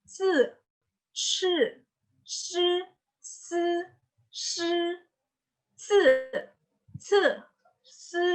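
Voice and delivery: high, level "si" with tongue at upper teeth; tongue-on-teeth sounds. Shown as a demonstration. Teacher drilling suara lidah pada gigi, high sibilant syllables. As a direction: sustain each "si" sibilant against the teeth, high. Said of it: "suara lidah pada gigi".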